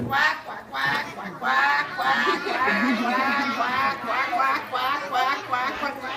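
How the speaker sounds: put-on quacking like a duck for the kids; playful duck quack. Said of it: "now you're a duck".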